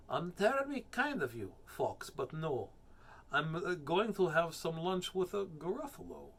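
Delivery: put-on accent for a little mouse; mouse character. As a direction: politely decline as a storybook mouse. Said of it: "that's the accent for the mouse".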